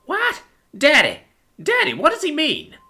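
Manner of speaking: put-on high, small voice of a bewildered kid; high-pitched puzzled little boy; confused child. A narrator's reading. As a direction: plead with daddy for an answer. Frightened child questions his daddy.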